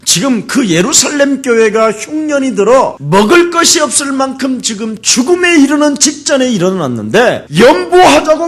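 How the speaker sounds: high-pitched, forceful pulpit rebuke; rebuking preaching. Real, not acted. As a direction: scold the congregation with rising urgency. (높은 소리로 꾸짖는 설교)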